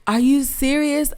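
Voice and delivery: high, amazed cry of disbelief; stunned disbelief. Retold or imitated. Finding her mother's lost video, high amazed disbelief. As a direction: gasp it out as if you can't believe your eyes. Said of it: "But I was just like".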